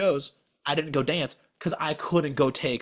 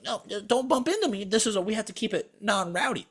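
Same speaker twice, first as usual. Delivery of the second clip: mock bouncer; 7 semitones higher than usual. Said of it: "there's like".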